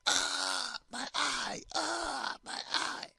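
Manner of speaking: high, loud pained cry fading to a breath; poked teacher crying out in pain; screaming in pain. Retold or imitated. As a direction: howl like someone just poked in the eye. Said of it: "the teacher screaming".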